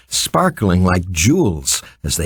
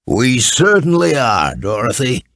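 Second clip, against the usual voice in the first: deep kind voice. A narrator's reading. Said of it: "in a deep voice that sounded pleasant and kind".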